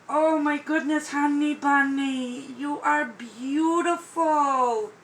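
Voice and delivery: cooing to a newborn; tender cooing. Real, not acted. Cooing to the doll.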